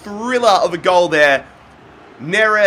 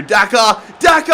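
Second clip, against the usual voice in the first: excited shout; 4 dB louder than usual. Real, not acted. Calling the striker's name.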